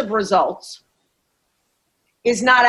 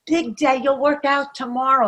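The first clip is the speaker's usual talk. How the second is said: lightly voiced inner brat, soft and coaxing, much softer; 5 dB quieter than usual. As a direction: coach voicing the inner brat coaxing you back to sleep, softly. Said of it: "The brat goes".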